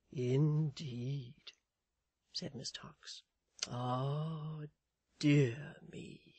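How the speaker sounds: sighing, whispered sympathy; compassionate. A narrator's reading. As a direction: pity her in a hushed tone. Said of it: "A tone of most extraordinary compassion".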